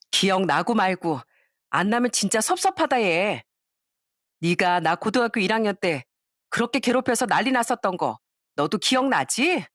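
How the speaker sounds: lightly voiced sneering classmate, taunting; a hint of a spiteful old classmate gloating; mocking classmate. (살짝 연기한 비꼬는 동창 목소리)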